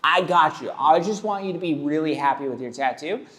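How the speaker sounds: a lightly perky, accommodating artist; cheery tattoo face. Retold or imitated. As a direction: chirp it out like an eager artist. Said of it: "That's my tattoo face".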